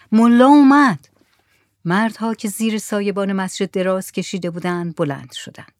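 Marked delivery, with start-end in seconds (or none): 0.1-1.1 loud, high cry; shouted announcement. A narrator's reading. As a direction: call the news out to everyone. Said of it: "سرش را بلند کرد و داد زد". (با داد خبر دادن)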